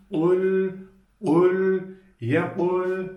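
yekul with thick kaf and thin lam; model reading. Shown as a demonstration. Teacher modelling yekul for students to copy. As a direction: sound out ul, ul, yekul for the class. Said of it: "Okuyalım bir deneyelim".

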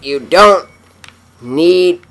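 loud, high coaxing; frustrated yelling. Real, not acted. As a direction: shout at the stubborn lungs. Pleading with lungs.

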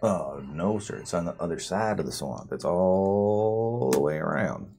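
lightly voiced rural elder, wry; a folksy NPC, dryly understated; drawling swamp folk NPC. The NPC gives directions.

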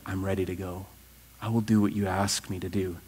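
low, soft, humble pledge; quiet surrender. Acted. Preacher voicing us answering God in prayer, quietly surrendering. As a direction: drop right down into a prayerful commitment.

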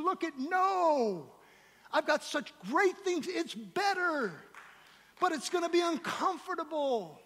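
high, impassioned sermon delivery; full-force preaching. Real, not acted. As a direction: build to a ringing pulpit challenge.

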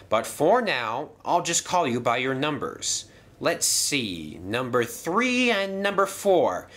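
apologetic, fussy, a bit breathless; flustered gentleman voice. Acted. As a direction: fluster through the excuses politely. Percival assigns jobs.

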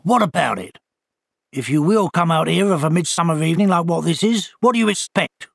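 lightly voiced owl scolding; a put-out bird lecturing the walker; testy owl. Owl figure speaks.

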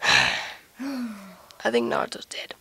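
low, slow eerie whisper. Acted. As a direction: breathe it out darkly. Monster voice emerges.

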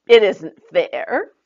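slow, loud, high sulky protest; a girl grumbling to her friend; complaining. Acted. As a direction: whine that it is unfair. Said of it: "Autumn complained".

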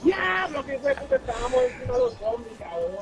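surprised shout. Real, not acted. Sorpresa de estar encima de zombis.

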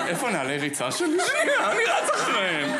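high, loud eager burst, laughing; excited. Retold or imitated. Husband telling wife he's running after the racers, excited. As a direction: jump up like a kid who can't wait to run. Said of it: "ואמרתי לאשתי".

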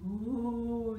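ghostly ooh; storybook ghost noise; spooky ooh. A narrator's reading.

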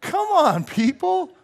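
high, loud plea to the crowd; rally them, pleading; loud preacher's come on; exhorting. Real, not acted. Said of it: "preacher exhorting".

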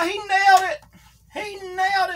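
high, loud triumphant call; excited shout. Real, not acted. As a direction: yell it like the move just landed. Calling the finishing move.

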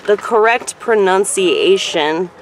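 "pronunciation" slow and loud, with an extra "see" syllable; slow, emphatic "pronunciation"; careful pronunciation. Shown as a demonstration. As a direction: say "pronunciation" deliberately as pro-nun-see-ay-shun. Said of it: "you fucked up that word".

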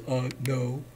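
soft, hesitant goblin; a hint of a sheepish goblin; goblin unsure. Horned goblin admitting ignorance, soft.

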